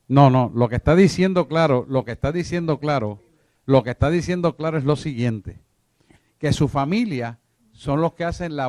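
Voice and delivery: forceful correction, building on each repeat; emphatic loud insistence. Real, not acted. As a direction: drive the point home like a preacher. Preacher insists, correcting the reading.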